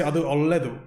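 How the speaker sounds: "adu olledu" spoken in careful Kannada; Kannada phrase. Shown as a demonstration. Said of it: "you would say".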